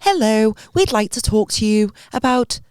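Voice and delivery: lightly acted missionary pitch; doorstep missionary. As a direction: greet them like a door-to-door preacher. Imagines English Mormons at door.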